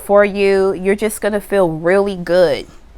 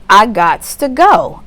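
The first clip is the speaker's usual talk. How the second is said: "I gots to go" slowed down and louder; slow final declaration; 4 dB louder than usual. Pretend. Client closing the argument, slow and emphatic. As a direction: drag it out like the last word. Acted quote, closing take.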